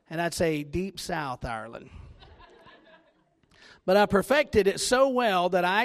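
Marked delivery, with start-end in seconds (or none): 0.6-1.9 slow, mock Irish-Southern reply; Southern-tinged Irish accent. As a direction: answer slowly in a muddled Irish-Southern accent. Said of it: "throw a little Southern in there".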